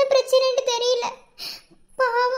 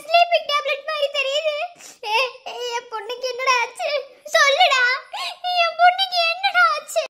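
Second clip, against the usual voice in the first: mother crying out in alarm; anguished, agitated calling out; distraught yelling; 3 semitones higher than usual. Acted. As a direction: demand to know what happened to your child. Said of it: "எல்லாத்தையும் கத்தி கூப்பிட்டுருவ போல".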